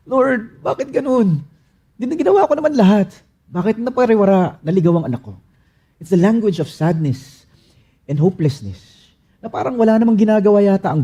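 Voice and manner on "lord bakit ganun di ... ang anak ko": high, pleading parent's cry to God; pained lament. Acted. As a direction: ask God why, hurt. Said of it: "marunong na magmura".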